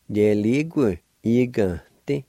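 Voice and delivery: "Yeligu, igante" blended, faint H where the vowel drops; "igante" with its N nasalized after "Yeligu"; faint aspiration. Shown as a demonstration. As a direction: join the syllables of "Yeligu, igante" with slight aspiration. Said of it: "there's a faint H sound".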